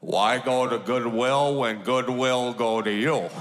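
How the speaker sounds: low grandpa voice, lightly done; gruff grandpa. Retold or imitated. Grandpa answering his grandson about tornado junk, low. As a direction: drop low and play the old man. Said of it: "And he goes".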